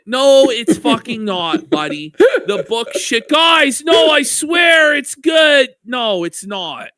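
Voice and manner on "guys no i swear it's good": high, loud whiny plea; mock the reviewer begging viewers, with a loud whiny plea; mock pleading shout. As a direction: beg them, hammed up. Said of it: "mocking Joe's pleading".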